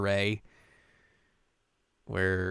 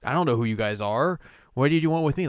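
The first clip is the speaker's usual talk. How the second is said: mock confused quote; 4 semitones higher, 4 dB louder, faster than usual. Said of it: "he's like".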